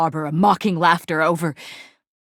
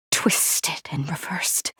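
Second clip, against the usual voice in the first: whisper; 3 semitones lower, 5 dB quieter, slower than usual. Acted. Wounded knight trails off.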